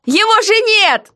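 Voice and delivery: high, slow, mocking heroine; defiant heroine. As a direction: tease the jailer back, slowly. Heroine voiced in dialogue.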